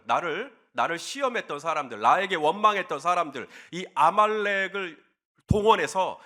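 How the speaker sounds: acted resentment, mildly heated; somewhat angry. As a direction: voice a hurt grudge with a touch of anger. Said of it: "좀 화나는 마음". (서운함 섞인 약간 화난 말투)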